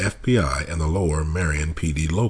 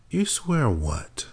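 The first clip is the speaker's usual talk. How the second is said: contemptuous; 9 semitones higher, 3 dB quieter, much slower than usual. A narrator's reading. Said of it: "Her words leaked contempt".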